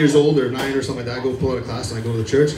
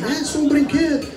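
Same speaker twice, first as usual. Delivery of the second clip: imitating mom in Portuguese; 9 semitones higher than usual. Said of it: "My mom".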